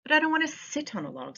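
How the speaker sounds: a hint of a reluctant frog; frog character voice. Teacher reading the frog to kids, lightly whiny. Reads the frog's lines aloud.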